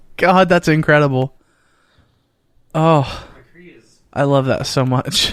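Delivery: teary, close to tears. Reacting to a listener's good news message read aloud, teary. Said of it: "Are you crying?".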